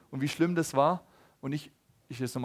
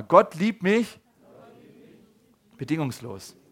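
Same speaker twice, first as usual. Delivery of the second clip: loud prompt to repeat; 5 dB louder, slower than usual. Shown as a demonstration. Preacher calls the congregation to repeat, loud. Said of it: "Okay, sag mal".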